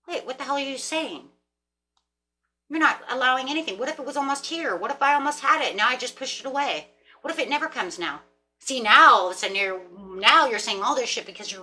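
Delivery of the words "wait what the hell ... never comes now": catching herself. Retold or imitated. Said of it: "I caught myself in the middle going".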